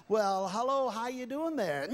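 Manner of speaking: ventriloquist throws a goofy voice; puppet voice for volunteer. Acted. Ventriloquist voicing volunteer's dummy voice.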